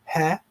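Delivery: Ha said as a throaty Arabic h. Shown as a demonstration. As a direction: model the Arabic Ha for students. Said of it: "that Arabic expression".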